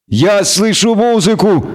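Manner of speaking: high, slow, weepy wail; tearful cry. A narrator's reading. Lutik facing the arrows, suddenly crying. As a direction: wail it as if bursting into tears. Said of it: "неожиданно заплакал Лютик".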